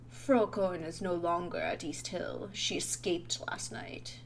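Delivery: hushed British bearer of bad news; British accent. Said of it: "He's just gonna be British".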